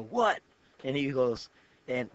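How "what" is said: sharp, high, loud "What?"; a high, loud call over the shoulder; retold yell. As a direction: snap it back, startled and annoyed. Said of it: "I turn around and I yell".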